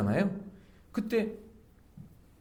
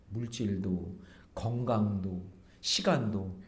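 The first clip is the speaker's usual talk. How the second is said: usual speaking voice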